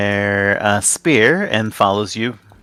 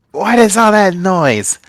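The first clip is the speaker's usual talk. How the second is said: higher, slowed-down try at the unseen speaker's voice; a first stab at the voice, pitched up and drawn out; rejected first voice; 8 semitones higher, 4 dB louder than usual. Acted. GM tries a first voice for the hidden speaker, high and slow. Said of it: "God, this jo-, voice sucks".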